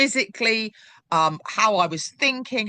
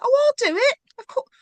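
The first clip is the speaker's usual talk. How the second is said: eager volunteer; 4 dB louder than usual. Retold or imitated. Mimics her eager past self.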